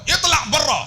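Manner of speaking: high-pitched mock-angry yell; imitated angry Arab. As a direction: yell at them to clear off. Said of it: "Kadang-kadang dia marah".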